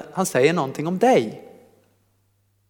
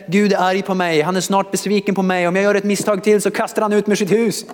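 higher-pitched, run-on fretting; mock anxious worrying; 5 semitones higher than usual. Preacher voicing a believer afraid of God's anger, mock panic. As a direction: imitate someone fretting without a breath.

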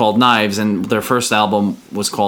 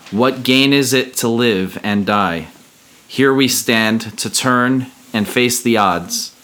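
solemn lyric reading; 3 semitones higher than usual. Acted. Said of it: "the lyrics go like this".

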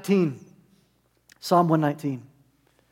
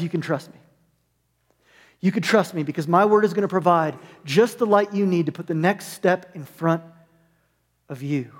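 gentle reassurance as God; 3 semitones lower than usual. Pretend. God speaks comfort to the listeners.

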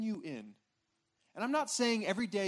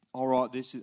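put-on low, half-hearted Australian accent; fumbled Australian accent; attempted Australian accent; 7 semitones lower, 6 dB louder than usual. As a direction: try a bad Australian survival-host accent, pitched down. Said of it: "I can't do the accent".

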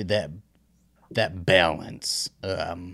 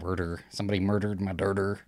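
Jersey accent; 4 dB quieter than usual. Shown as a demonstration. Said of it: "that's how I say it".

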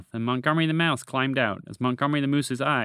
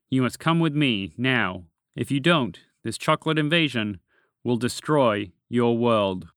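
ominous warning; 3 dB louder than usual. Acted. Dragon warns of invasion.

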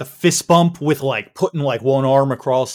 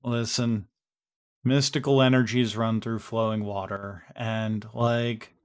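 lightly voiced, measured explainer; slightly lower, quieter, even delivery; Misty; 3 semitones lower, 4 dB quieter than usual. Misty explains the pentagram to the group, measured and subdued. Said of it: "she's just like".

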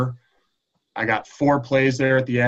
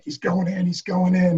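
retold excited cry, pitched up high; excited calling; 7 semitones higher than usual. Teammates trying to get mom's attention, excited calling. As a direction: call it out high like thrilled teammates. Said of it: "like, jumping up and down".

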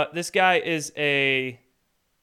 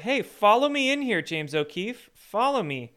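mock excited call; 6 semitones higher than usual. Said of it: "is like".

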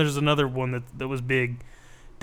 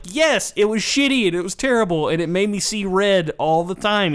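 tag; 5 semitones higher than usual. Acted. Acting exasperated gamer's reply.

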